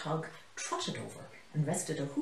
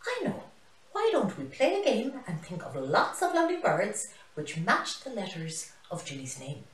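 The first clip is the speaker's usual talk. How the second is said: excited high idea; 5 semitones higher than usual. Acted. Teacher gets excited idea.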